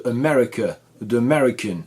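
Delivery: America and American stressed on MER; second-syllable stress. Shown as a demonstration. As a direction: hit MER, weaken the other syllables of American. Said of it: "si vous placez correctement l'accentuation".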